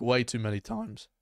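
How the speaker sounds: accidental crack on "times". Real, not acted. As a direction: voice cracks upward at the end. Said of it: "Voice crack".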